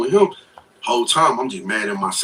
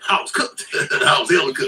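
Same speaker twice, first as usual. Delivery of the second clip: laughing through the words; real laugh breaking into the telling; amused admission. Real, not acted. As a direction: chuckle helplessly while owning up to it. Laughing at his own predicament.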